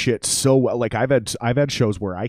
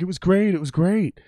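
mock gushing crowd; 9 semitones higher than usual. Mimicking crowd flattering drunk singer.

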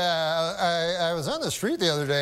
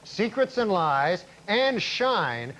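deadpan newscast delivery; news anchor read; 4 semitones higher than usual. Acted. Comic anchor reporting on Oscar night, news read. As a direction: announce it like the evening news.

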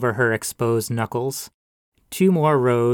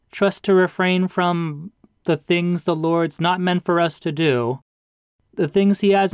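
much higher, louder pulpit warning building up; sermonizing pastor; 6 semitones higher, 3 dB louder than usual. Acted. Pastor warns the widow about what the Lord forbids, sermonizing. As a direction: climb into a moral sermon.

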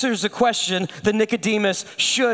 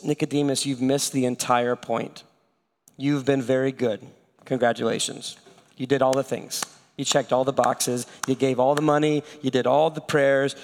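gentle Jesus; 4 semitones lower than usual. Retold or imitated. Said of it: "And he says".

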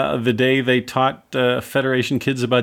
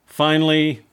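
ordinary talk, nothing marked

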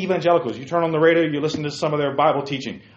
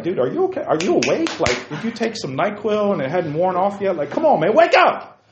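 mounting frustration into a shout; exasperated wake-up call; 2 semitones higher than usual. Retold or imitated. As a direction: rouse the sleepy coach. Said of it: "You're gonna be like".

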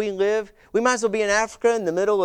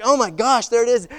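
annoyed outburst; 4 semitones higher, 5 dB louder than usual. Retold or imitated. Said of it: "I was so mad".

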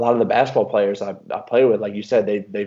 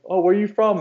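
mock question from a stranger, pitched much higher; imitating a curious foreigner; 11 semitones higher than usual. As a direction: play the curious stranger lightly.

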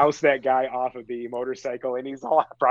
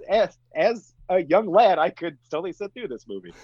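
high, put-on young-lad testimonial; mock reviewer; 6 semitones higher than usual. Reviewer recalling watching as a young lad, mock-earnest. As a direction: deliver it as a playful mock review.

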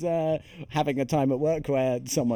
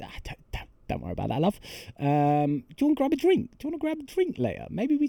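breezy Cockney voice, much higher on the offer of a drink; mock Cockney; 9 semitones higher, faster than usual. Anne Hathaway inviting Thomasin out, Cockney accent. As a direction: play it as a chirpy Cockney barmaid. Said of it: "she's not, uh, Cockney in this film".

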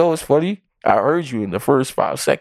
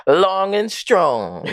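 slow ad slogan; 4 semitones higher, much slower than usual. Pretend. Repeated slogan.

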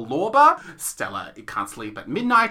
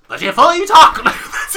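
high, loud put-on poor British; poor British accent demo; 10 semitones higher, 11 dB louder than usual. Shown as a demonstration. Host shows co-host how evil characters talk, poor British accent. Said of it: "you sound more poor British".

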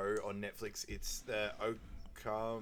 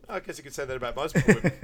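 laughing aside; 4 semitones higher, 10 dB louder, faster than usual. Real, not acted.

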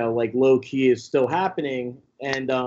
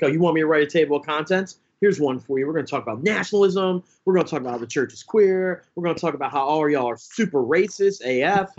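pissed off; 2 semitones higher, faster than usual. Retold or imitated. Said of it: "I got super pissed off".

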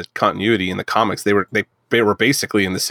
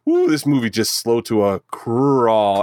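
slow bored voice; bored drawl; slower than usual. Retold or imitated. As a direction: drag it out, bored. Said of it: "It's just like".

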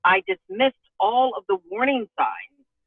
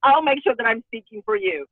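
higher, brisk deal-making prayer; playfully retold bargaining; bargaining with God; 3 semitones higher than usual. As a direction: pitch a deal to the Lord. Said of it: "here I am bartering with God".

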